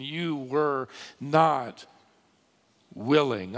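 "you were not willing" very slow, weight on "not"; emphatic phrase. Retold or imitated. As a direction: draw out "not", pause, then let "willing" fall. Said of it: "Underscore that last phrase".

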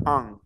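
"An" pushed into the nose as one sound; an A and N blended nasally in "An"; nasal vowel. Shown as a demonstration. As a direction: demonstrate a nasal French "An". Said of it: "pero nasal".

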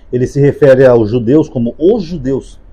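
os judeus said slowly with weight; slow down and set apart os judeus; slow, pointed os judeus; stress on os judeus. Shown as a demonstration. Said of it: "ele tenta dar uma entonação diferente".

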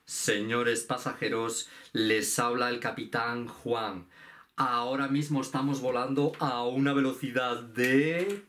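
anuncio de capitán de avión, lento; capitán Juan. Pretend. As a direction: como un piloto por megafonía. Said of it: "yo voy a ser el capitán". (voz de piloto anunciando a los pasajeros)

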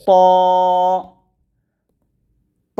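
ত said thick and full; emphatic heavy ত; heavy Arabic ta. Shown as a demonstration. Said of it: "এরকমভাবে আপনারা এই হরফটা". (মোটা করে ত)

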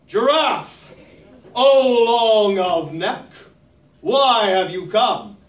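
grand ruler. Acted. Ruler of sky speaks.

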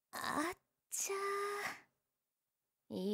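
long drawn-out "atcha" groan; slow groaning dismay. Acted.

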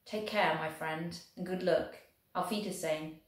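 lightly voiced German officer, careful and friendly; a hint of a polite German soldier. German proposing the coin toss to the Welshman, lightly voiced.

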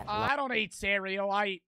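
tentative put-on British accent; British accent attempt. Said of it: "prepare my British accent".

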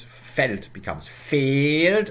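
Feld said slowly, the e stretched on the second; Feld to long Feld. Shown as a demonstration. Lecturer showing students the vowel lengthening, slowed down. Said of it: "L nine applies".

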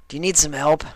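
lazy shout up into the tree as Rainbow Dash; Rainbow Dash calling up. Acted. Dash talks to Derpy.

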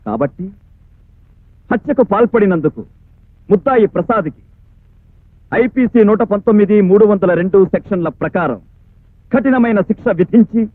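measured legal oratory with pauses between phrases; formal courtroom address. Acted. Prosecutor demanding punishment from the court, formal oratory. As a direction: deliver a formal closing plea to the court.

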